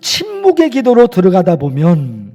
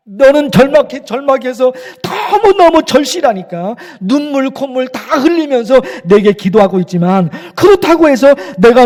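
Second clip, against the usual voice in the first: a firmer, louder voice of God pressing the question; God's stern challenge; 4 dB louder than usual. Retold or imitated. Pastor voicing God challenging the desperate believer, stern and loud. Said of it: "하나님이 그러신단 말입니다".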